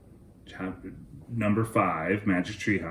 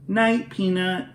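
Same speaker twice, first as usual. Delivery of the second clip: softly; 10 semitones higher than usual. Acted. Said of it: "she said softly".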